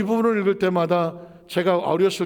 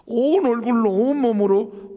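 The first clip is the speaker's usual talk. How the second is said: emphatic climax; 5 semitones higher, 5 dB louder, slower than usual. Retold or imitated. Climax of the fire story.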